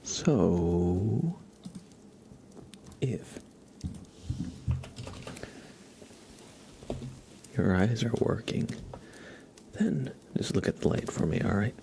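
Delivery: gently guiding whisper, look at the light; lightly voiced caring examiner. Light-following trigger roleplay.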